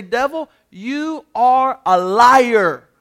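loud, forceful denunciation of the devil; spiritually strong rebuke. Acted. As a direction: preach it hard, weighting every word. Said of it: "be spiritually strong and say".

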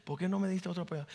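preacher softly retelling a mother's crying; retold weeping plea. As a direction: quietly echo her tearful plea. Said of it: "ella llorando decía".

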